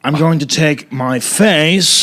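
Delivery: slow, drawn-out movie line; lightly imitated slow actor delivery; Nick Cage. Shown as a demonstration. Comic showing a friend the Cage line, slow impression. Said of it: "just say this line as Nick Cage".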